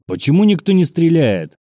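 high, indignant outburst. A narrator's reading. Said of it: "возмутился Тропов".

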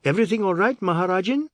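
loud, high call across the hall; brash warden shouting across the hall; shouted greeting. Acted. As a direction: call out heartily to a stranger. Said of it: "shouted at Sushila".

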